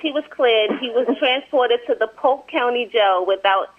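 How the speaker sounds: measured, even article reading; amateur newsreader delivery; news report read aloud. Real, not acted.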